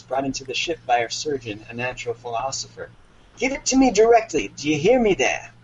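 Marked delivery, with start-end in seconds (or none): 3.4-5.5 high, louder order; commanding captain. Acted. Captain ordering the wombat to hand it over, loud command. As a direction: demand it like an imposing captain. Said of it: "addressing the wombat".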